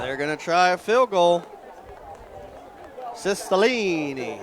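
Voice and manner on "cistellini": slow, drawn-out Southern take on the name; a hint of a Southern drawl on a player's name; southern accent. Shown as a demonstration. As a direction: say the name with a light Southern twang. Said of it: "I said it with my little southern accent there".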